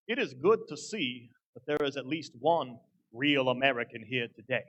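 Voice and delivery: slow, lightly voiced Confederate general; measured pace, a hint of old Confederate general; Confederate general impersonation. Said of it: "I'm gonna do my best, um, Confederate general impersonation".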